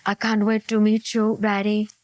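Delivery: low, even put-on caller voice; lightly voiced sweet-talking scammer, low; imagined online scammer. Faraway online sweetheart on the phone to Barry, put-on scammer voice.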